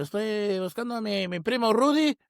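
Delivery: acted movie character. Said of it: "And he's like".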